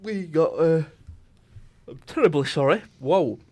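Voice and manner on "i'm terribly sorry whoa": mid-yawn apology. Real, not acted. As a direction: talk through a yawn. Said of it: "I just yawned".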